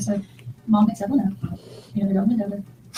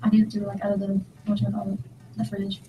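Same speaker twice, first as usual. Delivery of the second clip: drowsy, trailing words; half asleep. Real, not acted. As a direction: talk like you're nodding off. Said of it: "I'm half asleep".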